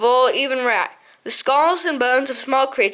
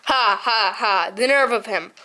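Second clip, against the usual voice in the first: unbridled hilarity; 4 semitones lower than usual. A narrator's reading. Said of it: "difficulty in controlling his unbridled hilarity".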